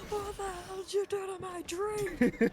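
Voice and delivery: high, hammed-up indignation; high-pitched mock fury; outraged cartoon character. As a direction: play a cartoon fish accusing someone. Imitates outraged SpongeBob character.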